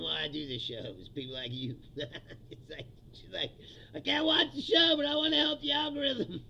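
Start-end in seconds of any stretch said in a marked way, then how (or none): 3.9-6.4 eager fan. Retold or imitated. Quoting loyal fan in bar.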